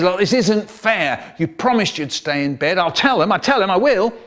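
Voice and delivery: slightly hammed-up tattling; mild protest. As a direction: protest as a wronged little brother. Acted child's protest, threatening to tell.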